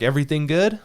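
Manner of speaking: a casual check-in with a hint of Russian accent; imitated Russian accent. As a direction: mimic the Russian repairman lightly. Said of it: "You know, in his accent".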